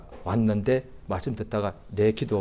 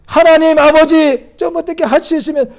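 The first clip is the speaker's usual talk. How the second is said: mock hesitant prayer; 15 dB louder than usual. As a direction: pray it half-heartedly to show the fault. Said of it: "믿는 사람이 기도할 때".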